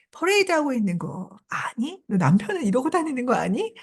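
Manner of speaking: mildly scornful needling question; mocking. Hattie taunting a woman parading in bedclothes, mildly mocking. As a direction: jeer lightly at a neighbour. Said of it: "비웃으면서 하는 말입니다".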